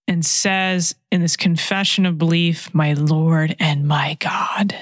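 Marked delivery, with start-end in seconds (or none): 2.7-4.8 slow hushed whisper of wonder; awed whisper. Acted. Preacher retelling Thomas's confession in an awed whisper. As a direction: whisper it like a private prayer.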